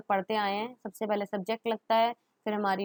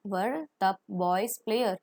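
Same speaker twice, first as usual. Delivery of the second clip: slow model question; much slower than usual. Shown as a demonstration. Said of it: "model question".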